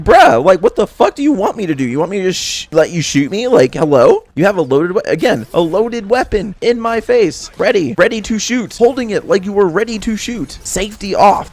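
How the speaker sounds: high, incredulous rant; retold exasperation. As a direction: act out arguing back in disbelief, hitting the key words. Acted exasperated reply to gunman.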